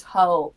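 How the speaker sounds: put-on "ho" read out in place of "old"; "ho" drawn out like a typo; misspelled drunk text. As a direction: sound out the typo "ho" as written. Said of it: "she spelled everything wrong".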